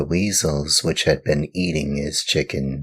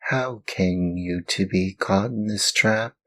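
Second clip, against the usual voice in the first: gentle glowworm; 5 semitones higher than usual. Acted. Glowworm questions the puppet.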